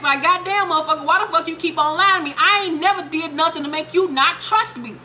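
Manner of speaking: high-pitched, indignant rant; retold exasperation. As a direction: protest hotly, as the betrayed friend. Retold angry confrontation between friends.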